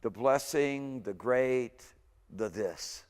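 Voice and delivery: slow word-by-word gloss; The blessing, the great, the this, spaced out word by word. Shown as a demonstration. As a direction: read out each word separately. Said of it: "Direct translation".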